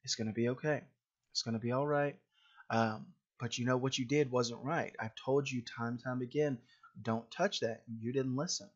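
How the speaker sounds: put-on patient parent calming a child who broke something; calm and reassuring. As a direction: soothe the child, then correct firmly. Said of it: "Try to stay calm and say".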